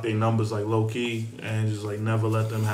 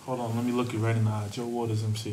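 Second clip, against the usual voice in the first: cool voice; 5 dB quieter than usual. Acted. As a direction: murmur it like a charmer. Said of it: "That's your cool voice?".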